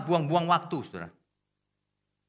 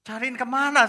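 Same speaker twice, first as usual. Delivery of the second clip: high, loud comeback; exasperated retort; 10 semitones higher, 9 dB louder than usual. Retold or imitated. Pastor answers the pleading husband, exasperated retort. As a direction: throw the question back loudly.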